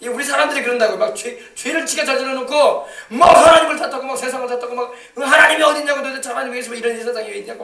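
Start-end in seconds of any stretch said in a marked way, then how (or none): 5.2-7.6 mock complaining. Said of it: "막 이런단 말이야".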